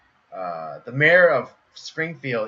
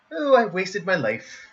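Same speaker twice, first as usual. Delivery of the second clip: high, despairing nerd; high cartoon nerd regretting everything; comic book guy; 8 semitones higher, 4 dB louder than usual. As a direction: lament in mock despair.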